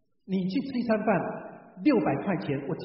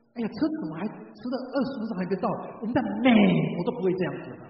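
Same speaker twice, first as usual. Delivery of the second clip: complaining returnee; 3 semitones higher, 4 dB louder, faster than usual. Retold or imitated. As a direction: imitate an indignant show-off fussing over a delay. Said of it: "那他就讲什么呢".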